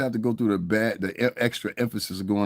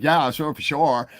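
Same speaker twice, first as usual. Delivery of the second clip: mock put-on voice; 2 semitones higher, slower than usual. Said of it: "I don't fucking talk like that".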